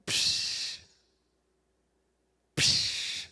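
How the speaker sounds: sharp hushy "psh" burst; imitated "psh" noise. Preacher setting up the giant's entrance, mimicked psh. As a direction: make an explosive psh sound.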